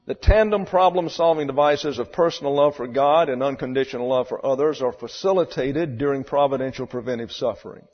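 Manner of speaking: preaching doctrine. Acted. Preacher declaims doctrine loudly.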